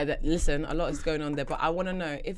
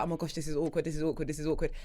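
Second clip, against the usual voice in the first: inner monologue; 2 semitones lower, 8 dB quieter, faster than usual. Acted. Guest voicing the listener's awkward thoughts, quiet inner monologue. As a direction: repeat it softly like a nagging thought. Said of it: "in your brain, you're like".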